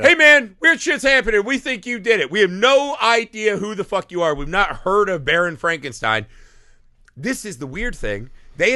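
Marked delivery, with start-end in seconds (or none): 0.0-6.3 much higher, louder, mock angry villager. Host mocks villagers accusing Frankenstein, high mock villager voice. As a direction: play the dim villagers confronting the baron.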